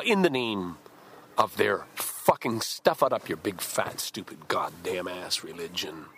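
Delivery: cursing the militants in disgust; angry outburst. Real, not acted. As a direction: let the anger boil over.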